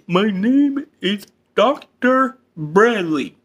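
each word of "My name is Doctor Bradley" dragged out; slow emphatic repeat. Acted. Therapist to George, repeating his name slowly. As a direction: slowly spell it out.

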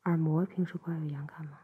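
gentle ear-cleaning whisper. Acted.

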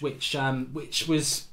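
ordinary talk, nothing marked

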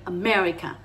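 "America" with the weight on "mer"; "America" falling away after a strong second syllable; stress on E. Shown as a demonstration. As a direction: hit the E in "America". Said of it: "En la tilde en E".

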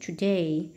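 today with the second syllable stressed; today, weight on the final DAY. Shown as a demonstration. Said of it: "nhấn âm hai".

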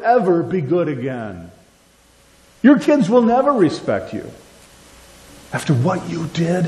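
a hint of a taunting accuser; lightly voiced accuser taunting. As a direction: sneer the lies at the listener. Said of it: "that voice that says".

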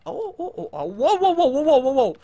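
breathless laughing wow. Real, not acted. Gamer laughs at a near miss while playing, relieved. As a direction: laugh off a close call.

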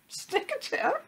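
very high, slow squeaky repeats; tiny-bird snicker-chirps; sniggering chirping bird. A narrator's reading. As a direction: tweet the words in falsetto. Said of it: "sniggering and chirping at the same time".

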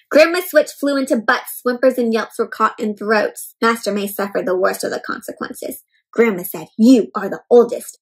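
steady storybook reading voice; story narration. Acted. Teacher reading a picture book to kids, calm storybook narration. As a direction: read the tale out to the class.

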